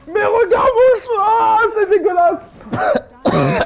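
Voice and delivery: talking with a burning mouth; words slurred by a burning tongue. Real, not acted. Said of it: "Je sens plus ma langue".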